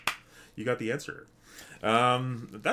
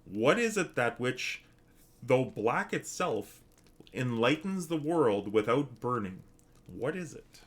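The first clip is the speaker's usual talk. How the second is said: slow, measured riddle recital; riddle reading; slower than usual. Acted. Streamer reading an archaic riddle to chat, slow recital. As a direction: pose the riddle slowly, line by line.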